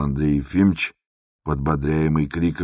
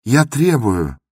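demanding shout; 7 semitones higher, 5 dB louder, slower than usual. Acted. Андрей кричит требование.

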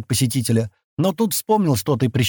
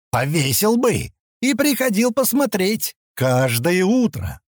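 put-on slow, higher drunken gloat; 8 semitones higher, slower than usual. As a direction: savour the threat like a drunk.

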